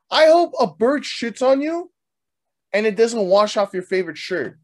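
high, mock-furious ill wish; spiteful curse. Man wishing petty misfortune on the woman, mock fury. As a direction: hurl a comic curse, pitched high.

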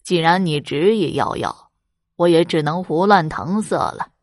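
hammed-up old beggar's laugh. Beggar laughs at wife, mock laughing. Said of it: "老乞丐大笑着说".

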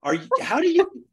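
retold surprise. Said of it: "I'm like".

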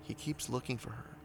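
lightly spooky story reading; story narration. Acted. Reads listener ghost story.

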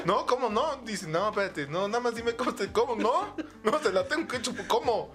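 mock confused disbelief. Student answering a friendly teacher, mock flustered disbelief. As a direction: play the baffled student, half laughing. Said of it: "Y dices".

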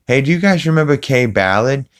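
high, rambling cartoon-dad impression; Peter rambling. Peter wandering off topic with his friends, mock rambling rant. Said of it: "he's like, on a rant".

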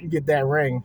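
ordinary talk, nothing marked

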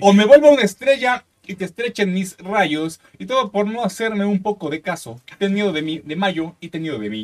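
slow, solemn reading of lyrics; dramatic lyric reading; poem recital. Acted.

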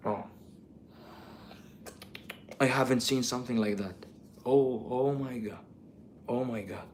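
low, soft English awe; hushed, underplayed imitation of an amazed vlogger; imitating American YouTuber. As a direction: murmur slowly in mock amazement. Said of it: "جايبينه يقول".

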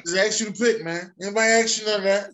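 high, fast, half-crying through laughter; laughing whine. Real, not acted. Host whining at his co-host's broom joke, laughing.

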